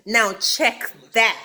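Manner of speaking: slow, lightly put-on sassy voice; Phaedra. Castmate boasting about her wigs, slow mock sass. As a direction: draw it out like a borrowed catchphrase. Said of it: "In my Phaedra voice".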